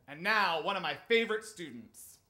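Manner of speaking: loud talent-show introduction; imitated teacher as emcee; introducing an act. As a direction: present the next performer in a projected voice. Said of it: "was introducing me".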